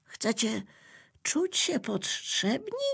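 high, rising astonished question; the notebook is amazed at Electricity, surprised. Acted. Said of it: "zapytał zdziwiony Zeszyt".

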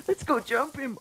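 laughing call. Acted. Repeats it laughing.

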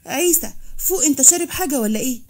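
acted shocked scolding; alarmed rebuke. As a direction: snap him out of it, voice climbing.

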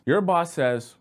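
ordinary talk

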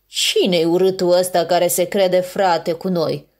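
lightly voiced sneering polar bear; a hint of a scornful polar bear; contemptuous. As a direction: look down on him with mild contempt. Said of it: "spuse cu dispreț un urs polar".

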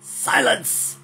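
a mock villain's roar; terrible roar. A narrator's reading. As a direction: roar to silence the crowd. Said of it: "he commanded in a terrible roar".

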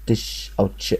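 "تش" sounded out alone as ch; a t running straight into sh on "تش"; ch sound demo. Shown as a demonstration. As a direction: isolate "تش", like the start of chair. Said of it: "ال سي اتش بتتنطق كده".

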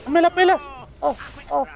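high, loud triumphant yell; loud taunt. Real, not acted. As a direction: shout it at the enemy. Taunting enemy in fight.

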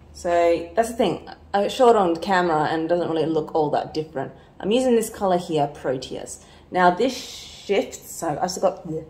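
talking around a retainer; wearing a retainer. Real, not acted. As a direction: speak with a retainer in your mouth. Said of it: "I have my retainer in".

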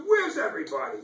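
gently voiced lonely duck; lost little duck calling out. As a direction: call out like the lost duck looking around. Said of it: "He says".

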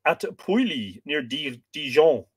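Pouilly and Dijon said the French way; French pronunciation. Shown as a demonstration. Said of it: "do you like my French pronunciation?".

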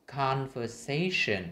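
"conversation" slowly, lifting "sa"; teacher's emphatic model of "conversation"; clear full articulation. Shown as a demonstration. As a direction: stretch "conversation" with every syllable audible. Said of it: "phải đọc rõ từng cái".

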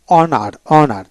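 অনার opening straight on the vowel; silent H. Shown as a demonstration. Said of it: "এখানে কিন্তু এইচ উচ্চারণ হবে না".

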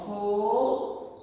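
"fogo" slowly drawn out as fo-go; slow teacher's sounding-out of "fogo"; syllable by syllable. Shown as a demonstration. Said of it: "separando em sílabas".

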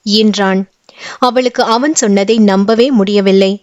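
usual speaking voice

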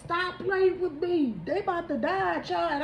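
laughing disbelief. Real, not acted. Laughing at the cards.

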